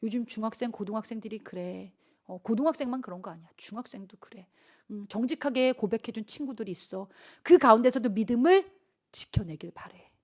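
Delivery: normal talking voice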